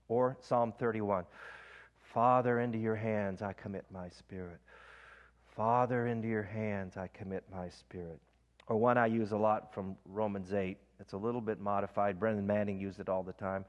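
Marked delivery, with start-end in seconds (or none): 2.0-8.2 breath prayer demo. Shown as a demonstration. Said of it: "Let me give you an example".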